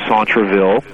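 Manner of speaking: Centreville in a French accent. Shown as a demonstration. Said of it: "You love my French accent there".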